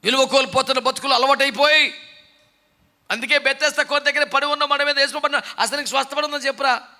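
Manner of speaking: loud, rising preaching, each line hammered harder; fiery preaching. Acted. Preacher shouting at his congregation to turn back to God. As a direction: thunder a call to repent.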